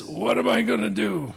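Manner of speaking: lightly voiced fretful farmer; half-acted anxious question; rich man's fretting. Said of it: "he talked like that".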